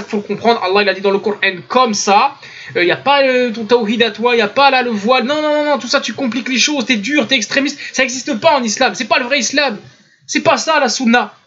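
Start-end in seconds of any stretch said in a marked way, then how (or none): 2.8-11.3 contradicteur parodié, débit de protestation; façon de parler imitée. Retold or imitated. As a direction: rejeter tout en bloc en imitant ces prêcheurs. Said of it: "c'est comme ça qu'ils parlent". (protestation moqueuse imitée)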